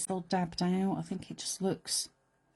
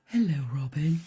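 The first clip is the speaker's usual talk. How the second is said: a hint of a well-spoken donkey; louder, plummy donkey hello; lightly voiced posh donkey greeting; 3 semitones lower, 6 dB louder than usual. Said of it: "that's how they talk".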